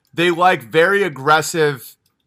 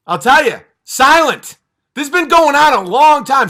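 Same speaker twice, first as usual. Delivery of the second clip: ordinary talk, nothing marked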